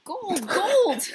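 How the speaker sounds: high excited shout; robbers exclaiming. A narrator's reading. Robbers rush the golden coach, shouting high and loud. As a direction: bellow it greedily at the glowing coach.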